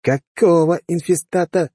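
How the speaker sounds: high, slow, insistent demand; pressing question. Acted. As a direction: press him for the answer. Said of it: "с нажимом спросил офицер".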